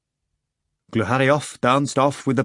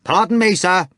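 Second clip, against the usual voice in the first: loud, raised, hostile waiter's call; hateful hoarse shout; 7 semitones higher, 5 dB louder than usual. A narrator's reading. Waiters pushing through with beer steins, shouting hatefully. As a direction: shout it hatefully over the crowd. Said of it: "shouting hoarsely and hatefully".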